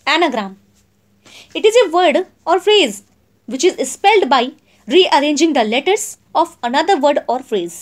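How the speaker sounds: each word spaced out for notes; slow, clear classroom dictation. Shown as a demonstration. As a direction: read it out slowly so students can write. Dictates definition slowly.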